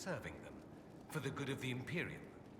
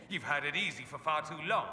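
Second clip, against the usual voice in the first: a touch of sneering Imperial contempt, a little louder; sneering mock quote; 3 semitones higher, 5 dB louder than usual. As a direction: mimic a snooty noble's sneer. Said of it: "sneer at the South ... and say".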